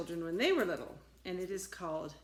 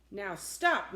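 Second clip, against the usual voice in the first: firm order; 5 dB louder than usual. Acted. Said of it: "Max said".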